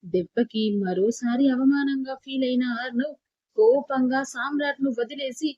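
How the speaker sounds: plain reading voice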